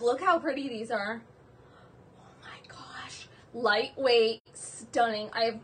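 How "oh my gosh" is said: slow, breathless whisper; awed whisper. Real, not acted. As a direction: whisper it in awe. Whispered awe.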